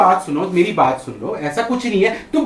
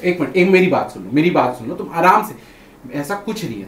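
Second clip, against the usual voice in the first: low-pitched, soothing plea; calming; 9 semitones lower, 4 dB quieter than usual. Real, not acted. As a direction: talk an upset partner down, voice dropping low. Husband trying to calm angry wife.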